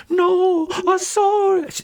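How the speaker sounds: very high, drawn-out frightened wail; hammed-up fearful dwarf, squeaking high; panicky insistence. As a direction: insist fearfully, far above normal pitch. Stone insists he saw it.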